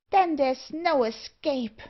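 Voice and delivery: high, slowing cry of dismay; alarmed dwarf. A narrator's reading. Dwarf realises they are trapped, high with alarm. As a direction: despair aloud in a high voice. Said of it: "cried the dwarf in alarm".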